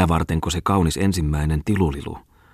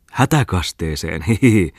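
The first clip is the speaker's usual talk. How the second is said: laughing. Acted. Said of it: "nauroi Muttinen".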